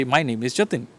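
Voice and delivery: "Jatin" dropped as a finished sentence; falling statement. Shown as a demonstration. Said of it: "I'm finishing my sentence here".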